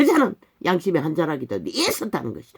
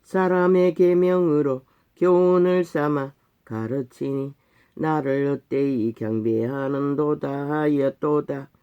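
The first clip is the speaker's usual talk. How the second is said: slow, solemn reading of a verse; scripture recitation; slower than usual. Acted. Preacher quoting God on a people's distant hearts, slow solemn recitation. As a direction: intone it in long, measured phrases.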